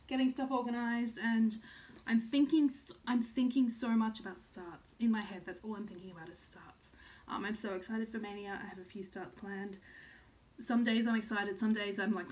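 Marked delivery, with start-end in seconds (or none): 5.5-6.9 whisper. Real, not acted.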